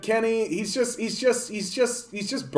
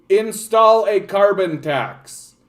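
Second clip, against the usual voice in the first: slow, grand mock address, a bit louder; pompous politician; 6 semitones higher, 6 dB louder, slower than usual. Streamer mocks the Liberal government addressing voters, pompous announcement. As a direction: announce it like a stiff official.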